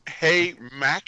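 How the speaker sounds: mock Brooklynese. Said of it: "nineteen fifties Brooklynese".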